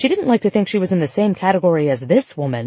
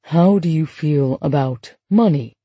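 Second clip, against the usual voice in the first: analyst; 4 semitones lower than usual. A narrator's reading. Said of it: "her analyst asked during their second session".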